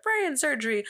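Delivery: high-pitched showman with a put-on accent; crowd-pleasing showman. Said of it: "I don't know why he has an accent".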